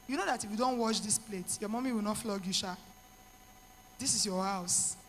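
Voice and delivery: low, soft, easygoing imitation; imitated husband's reassurance. Husband telling tired wife the dishes can wait, low and reassuring. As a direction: play the husband quietly talking her down.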